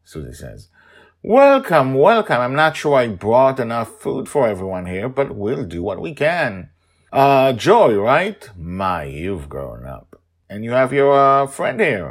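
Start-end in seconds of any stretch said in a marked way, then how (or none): 1.2-6.7 high, loud, bubbly hostess voice; eager hostess Sandra. Acted. 7.1-12.1 high, loud, bubbly hostess voice; eager hostess Sandra. Acted. Sandra greets Joy.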